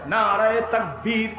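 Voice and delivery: slow, drawn-out slogan call; rallying call. Real, not acted. Preacher asking the crowd for takbir, rallying call. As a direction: stretch the call for a crowd response.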